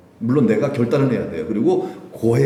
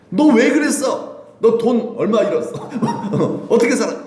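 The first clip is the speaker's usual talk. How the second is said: mock scolding father; 10 semitones higher than usual. Imagined scolding father to son, mock and laughing. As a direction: play the father who would nag, half-laughing. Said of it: "이런 거 안 따지세요".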